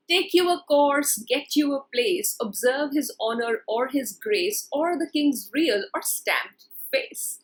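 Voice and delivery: slow, measured verse reading; poem reading. Shown as a demonstration. Teacher reciting the stanza to the class, slow. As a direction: read it out slowly like a poem. Reads next poem lines aloud.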